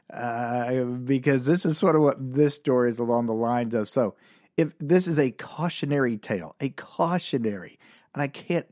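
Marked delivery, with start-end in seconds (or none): 5.2-7.8 cautionary leaned on hard at its first syllable; stress on cautionary. Real, not acted. Comedian warning listeners off his own college mistake, emphatic stress on cautionary. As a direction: punch the word cautionary each time it comes. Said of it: "I can't emphasize the word cautionary enough".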